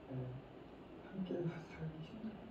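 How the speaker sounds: soft unvoiced whisper of an aside; breathy side remark. Real, not acted. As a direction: drop to a whisper, half to yourself. Whispered aside on living together.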